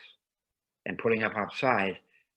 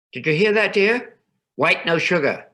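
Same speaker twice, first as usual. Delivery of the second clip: delighted mother; 8 semitones higher, 7 dB louder than usual. A narrator's reading. Mother repeats order delightedly.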